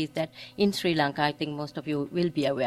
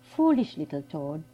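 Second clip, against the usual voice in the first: father's tender address; 2 semitones higher, 3 dB quieter than usual. Retold or imitated. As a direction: coax them gently like a loving father. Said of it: "he addresses them thi-, like this".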